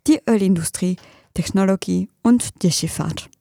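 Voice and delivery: measured radio news delivery; formal German news anchor voice; news read. Acted. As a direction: read the bulletin crisply and evenly.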